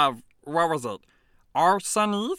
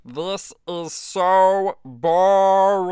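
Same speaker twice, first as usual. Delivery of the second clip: slow, drawn-out whine of boredom; bored complaint; 4 dB louder, much slower than usual. Acted. Alien prince complaining to the host, slow bored whine. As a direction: drag the words out like a sulky child.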